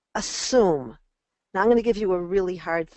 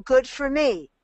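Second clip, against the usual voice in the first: proud self-cheer. Shown as a demonstration. Coach demonstrating a child's proud morning self-talk, building to a cheer. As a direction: cheer yourself on getting out of bed. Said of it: "the minute you start saying".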